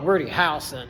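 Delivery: put-on Texan twang; lightly drawled South Texan accent. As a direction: say the name like a Texan. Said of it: "gruff South Texan accent".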